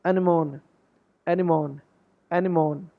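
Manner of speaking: एनिमोन in three beats, ending 'mone'; demonstrated pronunciation. Shown as a demonstration. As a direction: repeat एनिमोन as ani-mone, falling each time. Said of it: "इसकी correct pronunciation होगी".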